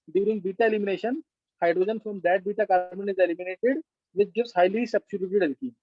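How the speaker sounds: slow, word-by-word dictation. Shown as a demonstration. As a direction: read it out slowly for notes. Teacher dictating rule statement.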